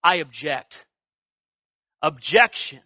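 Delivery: low, measured objection; restrained protest with pauses between; pushing back. Retold or imitated. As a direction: quote a firm but unshouted objection. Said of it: "he pushes back from God".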